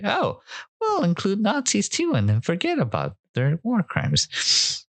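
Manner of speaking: high-pitched sarcastic impression; sarcastic mocking quote. Vlogger mimicking the host's sarcastic remark, high mocking voice. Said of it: "made her sarcastic paperclip remark".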